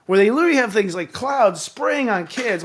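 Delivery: ordinary delivery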